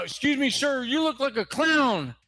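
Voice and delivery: a hint of officious cop; lightly voiced police officer. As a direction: address him as a mildly mocking cop. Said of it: "the officer remarked".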